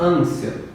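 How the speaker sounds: ânsia said slowly, syllable by syllable; soft, drawn-out ânsia as a syllable split. Shown as a demonstration. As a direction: sound out ânsia as ân-si-a. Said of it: "Separação aqui".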